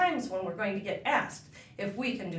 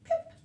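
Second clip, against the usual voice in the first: goldfish kiss; 3 dB quieter than usual. Pretend. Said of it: "noise like a goldfish kiss".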